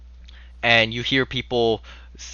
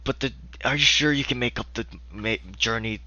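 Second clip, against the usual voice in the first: put-on whispering old man; 5 dB quieter than usual. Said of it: "He looks like a very old man".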